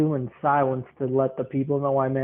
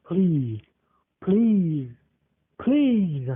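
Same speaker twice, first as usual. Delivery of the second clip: each please pitched higher, building a mock plea; building mock begging; 3 semitones higher, much slower than usual. Retelling the guy begging him, pleading higher each time. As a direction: beg harder with every please.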